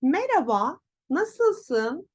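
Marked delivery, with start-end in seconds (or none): 0.0-0.8 merhaba as me-ra-ba, louder and rising; dropped H. Shown as a demonstration. Teacher models greeting learners, merhaba without H. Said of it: "H sesi sanki yokmuş gibi".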